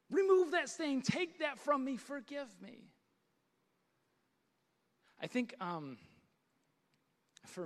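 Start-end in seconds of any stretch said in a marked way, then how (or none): 0.1-2.9 urgent pleading prayer. Acted. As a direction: beg God for forgiveness, fading on the last plea. Acted plea to God for forgiveness.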